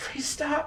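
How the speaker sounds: very hushed, quiet tiny creature voice, pleading. Voicing a small creature being kicked by attackers: small creature pleading. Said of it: "it's a pretty small creature".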